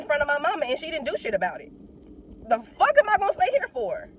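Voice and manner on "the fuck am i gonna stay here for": loud, high, exasperated outburst. Real, not acted. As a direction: throw the question out loud and high. Exasperated rhetorical question.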